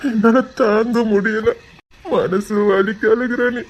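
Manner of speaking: slow, drawn-out anguish; anguished crying. Acted. Man unable to bear another's crying, anguished lament. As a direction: drag each word out in pain.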